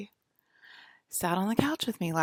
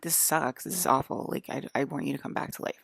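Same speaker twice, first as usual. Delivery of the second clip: mad rant; 3 semitones lower, faster than usual. Retold or imitated. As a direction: vent at him half in earnest. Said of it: "I just got mad at him".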